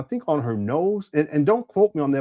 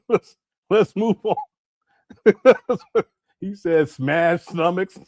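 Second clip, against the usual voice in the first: laughing; 2 semitones higher, slower than usual. Real, not acted. Laughing at Umar's phrase.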